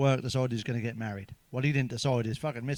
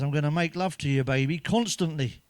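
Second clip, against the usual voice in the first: R. Kelly lyric; 3 dB louder than usual. Retold or imitated. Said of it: "he says".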